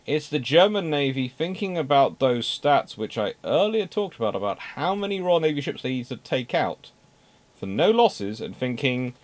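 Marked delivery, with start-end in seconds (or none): none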